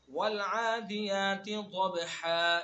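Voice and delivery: slow drawn-out Quranic recitation; measured Arabic chant; tajweed recitation. Shown as a demonstration. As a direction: recite it slowly, stretching each sound. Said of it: "یہ دیکھیے".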